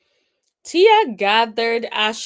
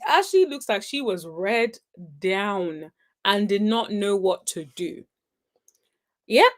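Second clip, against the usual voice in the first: ordinary delivery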